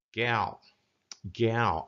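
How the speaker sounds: "gal" pulled back into the throat. Shown as a demonstration. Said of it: "pulling that back here into my throat".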